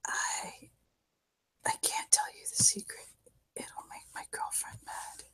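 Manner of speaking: very faint, confiding whisper. Acted. Drugged man not recognising his girlfriend, whispering. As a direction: whisper it barely audibly.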